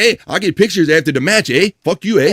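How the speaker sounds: indignant. Retold or imitated. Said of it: "hear him get all indignant".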